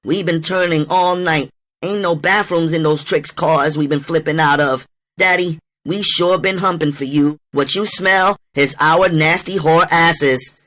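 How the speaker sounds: high-pitched woman sweet-talking her man; butter him up in a high, pleading-to-please voice; fawning, ass-kissing voice. Acted. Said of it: "cracked in the pleasing ass-kissing voice".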